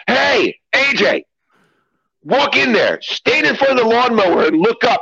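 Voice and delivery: high call across the yard; hint of a teasing call. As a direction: shout across to A J. Calling across fifty feet.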